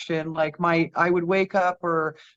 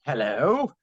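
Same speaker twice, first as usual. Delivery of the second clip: lower, deep English "Hello."; booming English voice; 5 semitones lower than usual. Retold or imitated. Uncle answering the phone in Vancouver, deep booming English. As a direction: greet like a big-voiced Englishman. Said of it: "this booming English voice".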